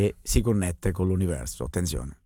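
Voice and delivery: low, hushed commentary. Real, not acted. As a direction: drop to a hush for the trance. Hushed as shaman goes into trance.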